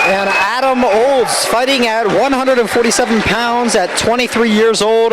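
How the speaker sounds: booming pumped announcer. Acted. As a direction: announce it like a fight night introduction. Echoing the ring announcer's intro.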